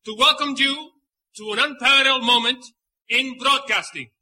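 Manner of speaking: showman host with Latin flair; lucha libre announcer. Acted. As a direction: welcome the crowd like a ringside emcee. Host greets audience in Spanish.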